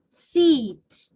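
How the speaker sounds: seat slowly with the long ee held; stretched seat. Shown as a demonstration. Teacher showing students a long vowel: slow stretched seat. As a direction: draw out the ee in seat. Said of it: "I have to stretch my vowel".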